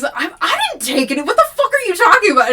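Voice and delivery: very high, very loud, fast panic; hysterical denial. Retold or imitated. William denying theft to the forest, fast loud panic. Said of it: "that's what he's".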